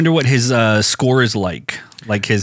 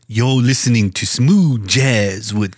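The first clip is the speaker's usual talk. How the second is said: slow, drawn-out jazz radio host; smooth voice; slower than usual. Pretend. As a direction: stretch it out like a smooth DJ. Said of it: "I'll do it in smooth voice".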